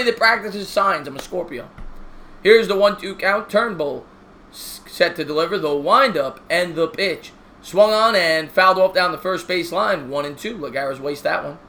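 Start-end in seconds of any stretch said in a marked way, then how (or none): 2.4-11.6 steady broadcaster call of the inning; play-by-play commentary. Acted. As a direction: call the game like a TV announcer. Mock play-by-play of game.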